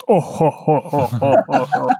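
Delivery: rolling ho ho ho laugh; Jabba the Hutt laugh. Acted. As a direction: chuckle like a bloated gangster slug. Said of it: "It's like Jabba the Hutt".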